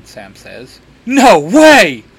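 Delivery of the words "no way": loud, high excited squeal of disbelief; fangirl shout. A narrator's reading. Clary meets the Winchesters, shouting fangirl style. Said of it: "Clary shouts, kind of fangirl style".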